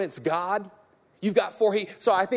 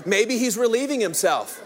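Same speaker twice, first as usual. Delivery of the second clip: "relieving himself" read through a laugh; 3 semitones higher than usual. Shown as a demonstration. Preacher laughing at Elijah's toilet jab, reading with a laugh. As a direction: chuckle your way through "Maybe he's relieving himself.". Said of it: "most translations say".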